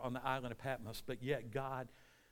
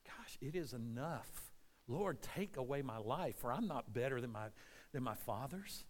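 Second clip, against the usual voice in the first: soft, defeated surrender; depressed Elijah; 3 semitones lower, 7 dB quieter than usual. Acted. Elijah asking the Lord to end it, quietly depressed. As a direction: give up quietly, voice dropped. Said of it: "And then he gets depressed".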